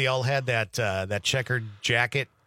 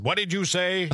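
higher-pitched, disbelieving retort; incredulous challenge; 7 semitones higher than usual. Retold or imitated. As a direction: imitate someone querying what they just heard. Boss challenges his mispronunciation.

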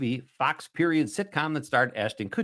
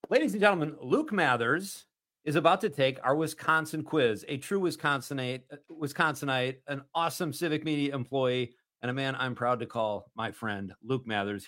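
big host intro, stretched name; game show announcer; 2 semitones higher than usual. Acted. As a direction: introduce the contestant like a quiz host.

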